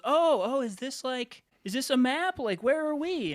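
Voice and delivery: high, curious grandma voice; sweet older lady. Retold or imitated. Betty shown the star map, asking in a high sweet old lady voice. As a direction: wonder at it like a delighted grandmother.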